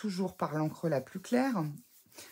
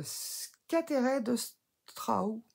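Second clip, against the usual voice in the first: French-accented English; 5 semitones higher, much slower than usual. Real, not acted. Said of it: "désolé pour mon anglais".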